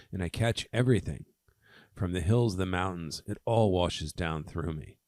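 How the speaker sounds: measured, lightly dramatic poem recital; poem reading. Acted. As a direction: read verse aloud with emphasis. Reads a poem aloud.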